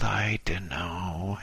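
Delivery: hesitant and unsure, drawing it out; doubtful. Acted. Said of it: "he said doubtfully".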